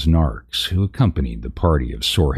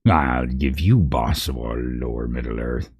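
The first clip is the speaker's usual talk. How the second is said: spat; 2 semitones lower than usual. Acted. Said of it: "spat the louder, deeper voice".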